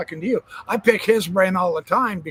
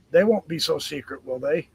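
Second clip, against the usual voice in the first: sarcastic; 3 dB quieter than usual. Acted. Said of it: "I'm being sarcastic".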